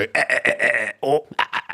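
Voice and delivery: jerky staccato grunts; imitated walking noises. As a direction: act out a weird backward-leaning walk in sounds. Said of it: "leaning back really weirdly and just go".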